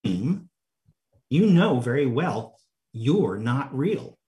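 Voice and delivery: measured storybook reading of teasing dialogue; story reading. Acted. Preacher reads the twins telling Alice she is not real, storytelling. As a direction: read the twins' replies aloud, drawn out in places. Reads Through the Looking Glass aloud.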